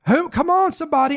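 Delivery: rally the room with a shout; fired-up preacher calls to the crowd; calling out. Real, not acted.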